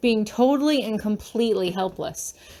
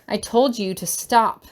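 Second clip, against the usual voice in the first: firm. Acted. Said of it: "my voice sounds stronger than I feel".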